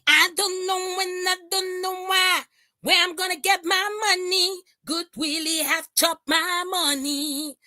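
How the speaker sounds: high mock wail about the money; mocking lament. Mimics crying woman's complaint.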